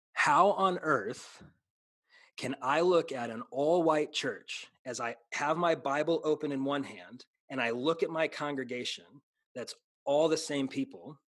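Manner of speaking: preacher's emphatic, deliberate phrasing; preaching. Real, not acted. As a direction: press the question on the congregation. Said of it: "you're gonna get me preaching now".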